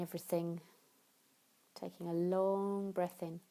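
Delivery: unhurried meditation guidance with long pauses; guided relaxation. Acted. Yoga teacher guiding listeners into tension and release, guided relaxation. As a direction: talk them gently through each step, leaving room to breathe.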